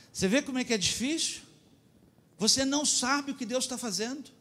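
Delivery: high, urgent preaching; preaching at full force. Real, not acted. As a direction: press the point home. Pregação em voz alta. (pregação inflamada)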